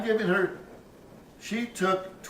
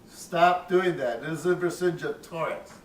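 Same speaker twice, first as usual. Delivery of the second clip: mild stern teacher. Retold or imitated. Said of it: "she said".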